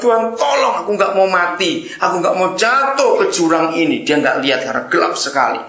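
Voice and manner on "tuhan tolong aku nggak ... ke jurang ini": high, pleading, panicky plea; frantic prayer. Acted. Man dangling over the ravine pleads with God, high and frantic. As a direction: pray as if about to fall.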